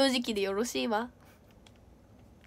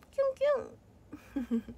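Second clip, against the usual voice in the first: cutesy heart flutter; 9 semitones higher, 7 dB quieter, much slower than usual. Acted. Gift sound effect voice.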